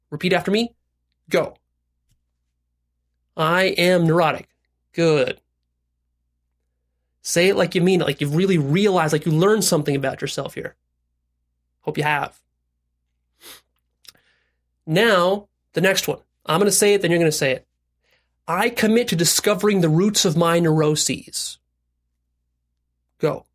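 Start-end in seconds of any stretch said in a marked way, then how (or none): 3.3-4.5 slow, evenly spaced statement; deliberate recitation. Shown as a demonstration. Coach saying the line with listeners, deliberate recitation. 18.5-21.6 slow, measured pledge; deliberate recitation. Shown as a demonstration. Coach modelling a commitment for listeners, deliberate recitation.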